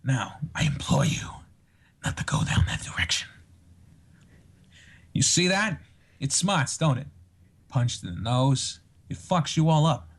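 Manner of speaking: serious, menacing actor impression with long pauses; Christopher Walken. Shown as a demonstration. Guest threatening someone in a requested Christopher Walken impression. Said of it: "a good Christopher Walken".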